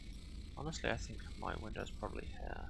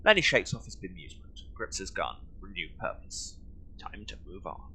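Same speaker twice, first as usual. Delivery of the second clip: mock story narration; 3 semitones higher than usual. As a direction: narrate in halting fragments with pauses. Voices narration of a character's reactions.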